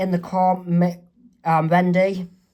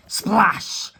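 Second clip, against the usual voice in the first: whispered splash. Acted. Whispered sound effect.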